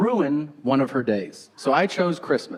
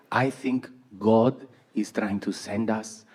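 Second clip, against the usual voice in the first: mom voice; 4 semitones lower, 4 dB quieter, slower than usual. Retold or imitated. Mom, voice fading to whisper.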